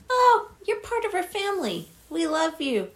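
high-pitched, sweetly reassuring imitation; mock reassurance. Johnny telling Danny he's family, mock-reassuring. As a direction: coo it like an exaggerated comforter.

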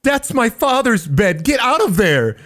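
put-on a small child telling them off. Child NPC voiced by GM.

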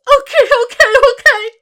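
yelping give-in after the ankle stomp; hammed-up sobbing scream; screaming through tears. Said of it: "babbles and screams through tears".

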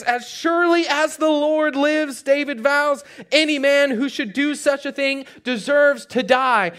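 indignant vow, understated anger; furious vow. Acted. David passing judgment on the rich man, mildly furious. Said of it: "It says David was furious".

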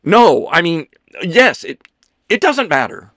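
high, loud, broken-up phrases; flustered backpedalling. Acted. Ethan correcting himself to Leo, frantic and halting. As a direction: contradict yourself in a fluster.

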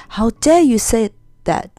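indignant cry. A narrator's reading. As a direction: cry out as if insulted. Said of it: "cried Metal".

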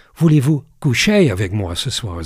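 French lyric sung-spoken with a light English accent. Shown as a demonstration. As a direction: say the French line like an English speaker would. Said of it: "Ik doe het een beetje met een Engels accent".

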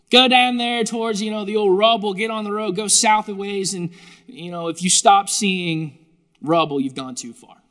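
put-on light Pittsburgh accent, rambling directions. Angel directing Philip down the road, mild Pittsburgh accent. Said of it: "in his best Pittsburgh accent".

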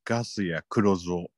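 a creepy salesman purring his pitch; sinister salesman. Acted. Parody sinister salesman intro. (不気味なセールスマンの声)

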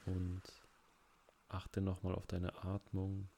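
slightly hushed, unhurried guide with long pauses; guided relaxation. Real, not acted. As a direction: ease them gently through each breath, leaving long pauses. Leads breathing relaxation exercise.

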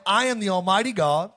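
preacher lightly voicing God; God speaking. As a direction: proclaim it as the Almighty, lightly voiced. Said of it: "when God talks like this".

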